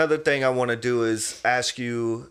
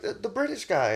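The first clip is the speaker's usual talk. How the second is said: quoting wife; 11 semitones higher than usual. Retold or imitated. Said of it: "And she was like".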